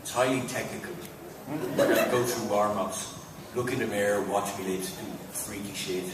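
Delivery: hammed-up Irish accent, joking. Shown as a demonstration. Comedian explaining his accent warm-up to a fan, Irish accent. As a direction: put on a cheeky Irish brogue. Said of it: "can you say something in your Irish accent".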